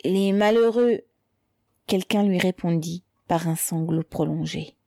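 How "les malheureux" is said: strained, slightly raised cry; choked gasp. A narrator's reading. Mother seized by the throat by the gendarme, choked gasp. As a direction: force it out as if being throttled. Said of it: "Elle râla".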